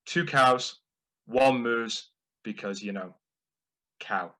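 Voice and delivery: terse brother version. Retold or imitated. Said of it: "his version of that joke".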